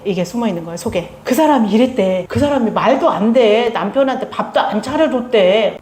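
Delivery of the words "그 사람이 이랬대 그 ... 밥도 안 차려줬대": gossiping. Retold or imitated. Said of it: "막 이런 험담을 해요".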